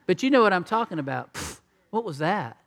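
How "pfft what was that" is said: mock angry snort. Shown as a demonstration. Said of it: "snorted with anger".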